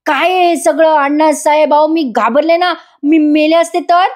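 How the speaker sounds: high, frightened yelling at him; mock scared yell, pitched high. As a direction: cry out in fright at the man who nearly ran her down. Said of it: "त्याच्यावर ओरडून म्हणते".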